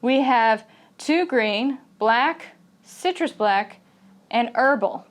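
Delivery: "green", "black", "citrus black" each lifted and separated, "herbal" closing; intonation jumps per item. Shown as a demonstration. English teacher showing list intonation, a jump on each item. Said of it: "going to kind of jump on each one".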